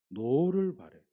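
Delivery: loud burst on the word; a sudden loud angry exclamation. Shown as a demonstration. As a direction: bark it out like a flash of anger. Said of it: "화를 냈다는 거예요".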